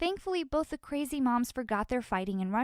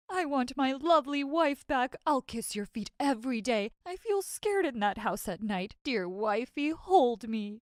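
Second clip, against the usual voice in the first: mock crying husband, pleading; blubbering baby; 2 semitones higher than usual. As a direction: whine it like a big baby begging. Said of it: "He was crying like a little baby".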